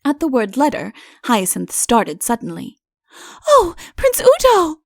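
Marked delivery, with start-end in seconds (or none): 3.5-4.8 high, slow, ringing cry; cried out. Acted. Princess crying out to Udo in sudden remorse. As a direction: cry his name as the memory strikes. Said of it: "she cried".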